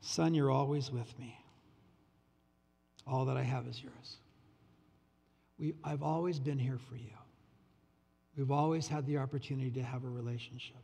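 soft, gentle father pleading, lightly voiced; tender father. Father pleading with his resentful older son, tender and hushed. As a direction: coax him back quietly, growing hushed.

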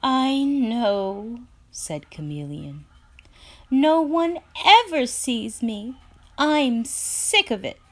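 sulky and tired of being unseen; fed-up Chameleon. Acted.

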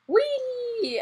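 high gleeful whee. Real, not acted. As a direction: squeal on the way down. Sledding down.

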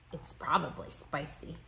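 low, soft murmur; whispering. A narrator's reading. Classmate doubtful about unfamiliar food, whispering softly. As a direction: keep it hushed, under the voice. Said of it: "heard whispering".

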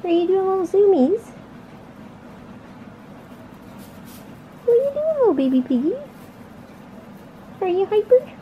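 overwhelmed by cuteness. Real, not acted. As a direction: squeal over the cute pet. Gushing at zooming guinea pig.

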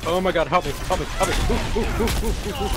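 high, panicked cries for help; panicked pleading. Real, not acted. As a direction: plead frantically. Teammate under attack.

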